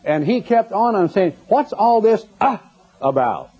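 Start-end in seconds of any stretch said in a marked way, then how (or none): 1.5-3.5 radio preacher impression. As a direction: ham up a droning radio preacher, pitched way up. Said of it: "that's the way it sounded".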